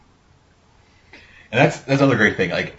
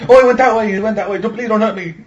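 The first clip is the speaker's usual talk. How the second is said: high squeaky cowering plea, louder at the start; mock begging; 11 semitones higher, 5 dB louder, faster than usual. Retelling the hitman fooling the guards, high mock-terrified begging. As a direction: whimper like a terrified bystander faking it. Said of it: "He was like".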